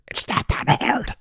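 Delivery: high, strained, drawn-out exasperation; incredulous. Real, not acted. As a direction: squeal it slowly in comic disbelief. Mock outrage at slow scammer.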